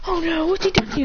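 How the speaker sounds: high-pitched alarm; worried mother. Acted. Mother hearing Dad found her son, high worried voice. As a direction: react with motherly dismay.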